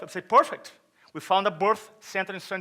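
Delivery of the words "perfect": loud, higher instant yes; eager retold agreement. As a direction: agree loudly, with mock gusto.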